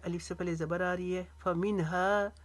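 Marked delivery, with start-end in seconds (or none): 1.4-2.3 फ़मिनहा with its final aa stretched; long हा. Shown as a demonstration. Teacher demonstrating alif madd, फ़मिनहा ending long. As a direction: hold the last vowel of फ़मिनहा. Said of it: "हा को अलिफ जितना लंबा खींचेंगे".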